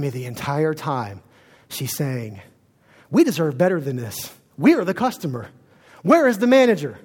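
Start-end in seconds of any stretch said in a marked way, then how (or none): 3.1-7.0 mock indignant ranting. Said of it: "she's just preaching this at the top of her lungs".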